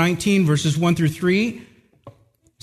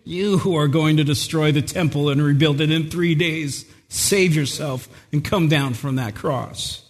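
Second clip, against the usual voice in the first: mocking passersby. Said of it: "hurling abuse at him, saying".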